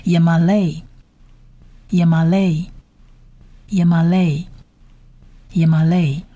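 Yemaleh read slowly as one word, silent letters dropped; 发音示范. Shown as a demonstration. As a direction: say Yemaleh slowly and evenly, for learners to copy. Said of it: "所以这四个字母合起来的发音是". (慢速示范 Yemaleh 的连读发音)

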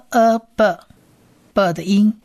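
呃 then b, b, drawn out slowly; sounding out b. Shown as a demonstration. Teacher models the b sound slowly. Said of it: "所以b".

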